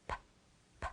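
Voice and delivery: "P" as a bare puff of air with no voice; teacher modelling the sound "P"; isolated P sound. Shown as a demonstration. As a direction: pop the lips on "P" and just blow. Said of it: "You don't make any noise with your throat".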